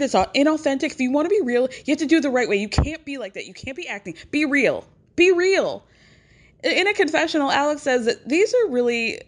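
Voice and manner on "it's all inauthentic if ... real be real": mock annoyed. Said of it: "Kelly is pissed off right now".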